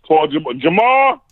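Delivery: real parental call across the house. Real, not acted. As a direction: call the name up high to get attention. Calls out to child off mic.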